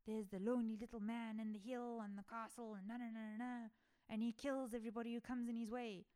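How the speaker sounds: a hint of Scottish accent telling the rumor; lightly Scottish, like gossiping locals; half-hearted Scottish accent. Locals spreading the rumor, faint Scottish accent. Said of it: "I don't know if I'm trying to do a Scottish accent".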